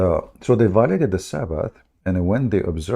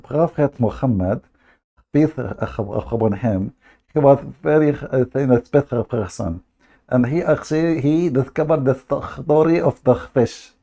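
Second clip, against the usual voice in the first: higher, lightly mimicked viewer; imitating a viewer; 5 semitones higher than usual. Commenter praising the prophet, mildly mimicked higher. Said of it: "he says to them".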